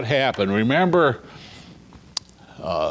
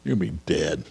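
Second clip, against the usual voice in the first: calm; 5 semitones lower, faster than usual. Retold or imitated. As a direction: deliver doom gently, letting it fade. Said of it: "Samuel just calmly says".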